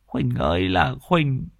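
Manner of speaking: put-on an old woman mourning and scolding the dead; wailing lament. Old woman laments over the hanged couple, wailing. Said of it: "mà buông lời trách móc".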